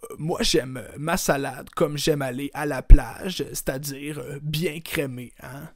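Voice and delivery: loud, smug premier answer. Acted. Legault joke answer.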